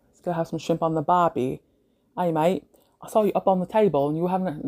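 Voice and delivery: badly faked Australian accent; amateur Aussie accent, abandoned midway; attempted Australian accent. Shown as a demonstration. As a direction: have a half-hearted go at an Australian accent. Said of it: "see if I can do an Australian accent".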